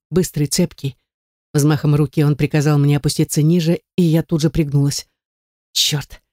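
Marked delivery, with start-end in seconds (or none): 5.7-6.2 muttered through teeth. A narrator's reading. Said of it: "процедил он".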